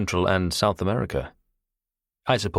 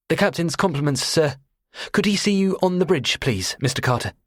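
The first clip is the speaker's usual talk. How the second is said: put-on high, eager, nervous boy's voice; a shy teenage cadet delivering a message; shy young cadet; 10 semitones higher than usual. A narrator's reading. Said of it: "desperately shy and very impressionable".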